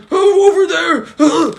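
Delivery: high, slow feeble voice; slow, high mock daze; dazed weak reply. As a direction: answer faintly like you're half-conscious. Dazed injured boy answering.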